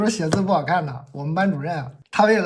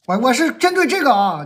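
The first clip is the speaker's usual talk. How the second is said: higher and louder, stress on 对; emphatic insisting; 6 semitones higher, 6 dB louder than usual. Real, not acted. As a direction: pushes hard on the word 对 to defend himself. Insisting to the audience.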